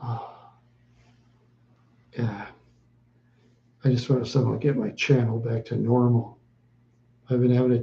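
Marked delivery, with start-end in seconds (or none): none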